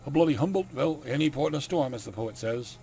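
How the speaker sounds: put-on Dracula accent, high at first then settling; exclaim, then resign yourself, in a put-on Dracula accent; hammy country Dracula accent. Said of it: "I'm sticking with the accent I gave him".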